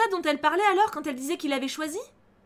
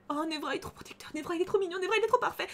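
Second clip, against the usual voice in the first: starts as a breathless whisper, climbs higher each line; fangirl gushing; 5 semitones higher, 4 dB quieter than usual. Acted. Player swooning over the vampire, gushing whisper rising higher. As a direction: swoon over him, more giddy each time.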